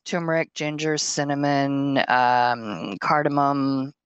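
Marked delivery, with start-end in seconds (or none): none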